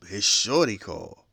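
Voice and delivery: normal talking voice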